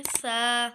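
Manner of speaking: सा with the tongue tip on the upper front teeth; demonstrated letter sound. Shown as a demonstration. Teacher showing learners the tongue position, demonstrated letter sound. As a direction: say सा with the tongue touching the top teeth. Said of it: "तो इस तरह पढ़ेंगे".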